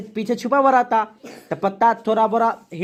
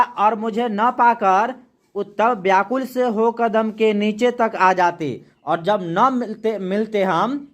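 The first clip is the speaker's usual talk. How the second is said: slow, measured poem reading; poem recitation; slower than usual. Acted. Teacher reading a poem to the class, slow recitation. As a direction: recite the verse slowly for the class.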